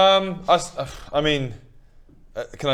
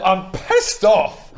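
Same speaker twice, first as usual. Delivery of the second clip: angry; 3 semitones higher, 4 dB louder, much slower than usual. Acted. Entering a frenzied rage.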